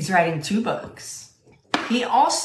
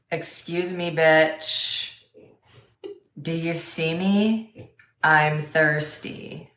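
sassy cat voice; slower than usual. Retold or imitated. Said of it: "here's how I imagine a cat talking".

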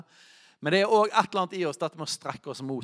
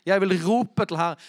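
loud, raised preaching voice; called out loudly; 3 semitones higher, 7 dB louder than usual. Shown as a demonstration. Preacher reading the psalm aloud as a cry to God, loud call. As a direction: proclaim the verse loudly. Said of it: "gjør et poeng ut av å rope det ut".

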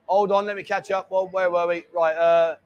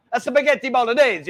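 mock Italian; 4 dB louder than usual. Shown as a demonstration. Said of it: "Do you wanna hear my Italian?".

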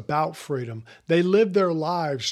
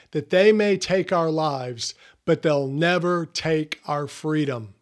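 put-on slow, stirring battle speech, no Scottish accent; rally your men before a battle you'll likely lose; William Wallace's rousing speech. William Wallace rallying his men before battle, a lightly voiced stirring speech. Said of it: "And this is what he says".

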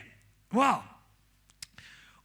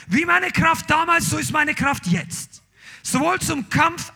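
bold proclamation; 5 semitones higher, 5 dB louder than usual. Acted. Kaleb's bold claim preached.

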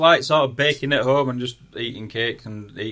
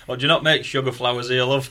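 put-on broad Yorkshire accent, mildly raised; 3 semitones higher, 5 dB louder than usual. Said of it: "shouted out in my broad Yorkshire accent".

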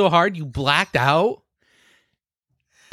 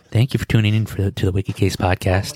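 mock ASMR; 5 semitones lower than usual. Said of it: "do a little A S M R here".

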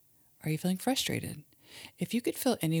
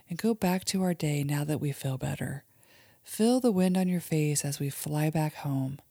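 put-on guided imagery for kids; 2 semitones higher than usual. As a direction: lead a child gently through a calm daydream. Mom leads kids' guided imagery.

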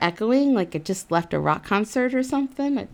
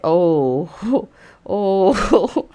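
flustered oh; 5 dB louder than usual. Real, not acted. Seeing him in a towel.

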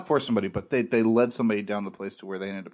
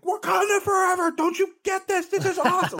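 excited shout. Retold or imitated. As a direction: scream it out in pure joy. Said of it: "I wanted to just scream in people's face".

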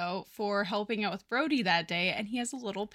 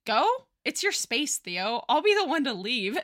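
offended martyr insisting on leaving; indignant Sheldon; 2 semitones higher than usual. Acted. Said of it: "And Sheldon is like".

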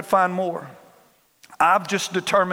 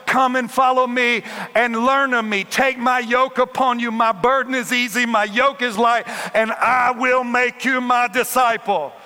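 voicing Jesus; 3 semitones higher than usual. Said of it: "Jesus looks at him and says".

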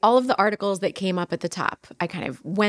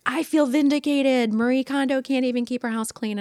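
lightly put-on higher voice of online critics; raised, mildly mocking quote; mock gloating poster; 5 semitones higher than usual. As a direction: imitate someone crowing on social media. Voices gloating social media posters.

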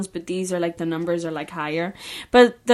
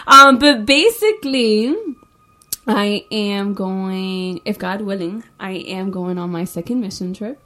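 announcement voice; 6 dB louder than usual. Pretend. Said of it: "taking a video for it".

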